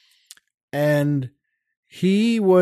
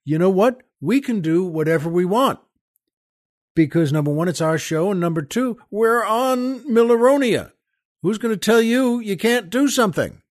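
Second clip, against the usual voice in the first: excited producer; 6 semitones higher, 3 dB louder, faster than usual. Retold or imitated. Host retells producer's excited reply.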